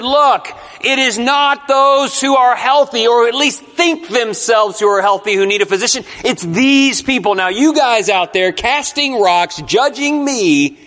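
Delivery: preacher voicing Jesus calling out across the room. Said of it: "he kinda yells out to them across the way".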